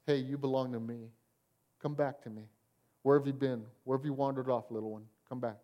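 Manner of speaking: soft, tender call to come home; gentle whisper. Retold or imitated. God gently calling his wandering child home, soft and tender. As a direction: coax them back gently like a lost child. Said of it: "it's a gentle whisper".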